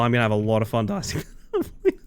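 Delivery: rushed out through laughter; fast and laughing. Shown as a demonstration. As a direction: rattle it off, cracking up. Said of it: "I gotta let you know".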